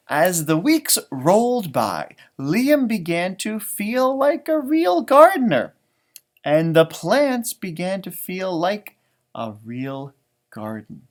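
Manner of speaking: measured picture-book reading; storybook reading voice; story narration. A narrator's reading. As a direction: read it out to children, unhurried. Reads the book aloud.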